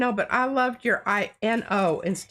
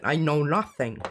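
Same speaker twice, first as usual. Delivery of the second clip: put-on Schultz German accent; 4 semitones lower than usual. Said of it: "with that German accent".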